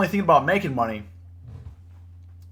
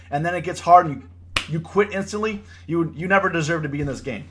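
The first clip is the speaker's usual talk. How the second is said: higher, impassioned scolding; getting heated; 4 semitones higher, 3 dB louder than usual. Real, not acted. Trader berating those who quit when it gets hard, heated. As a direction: rant hotly at the quitters. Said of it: "Sorry, I'm getting heated".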